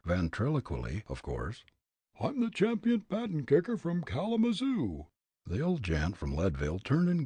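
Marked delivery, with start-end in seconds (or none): 2.2-5.1 very high, puffed-up pompous voice; pompous man. Acted. Ventriloquized pompous man offering to kick the old gent. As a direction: play a pompous bystander, thrown. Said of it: "pompous-looking man to say, ventriloquially".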